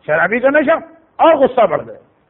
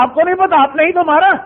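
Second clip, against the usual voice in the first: higher, incredulous retort; astonished; 4 semitones higher, faster than usual. Retold or imitated. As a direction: recoil in disbelief at his ignorance. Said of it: "میں نے حیران ہو کر کہا". (حیرت سے، اونچی آواز میں)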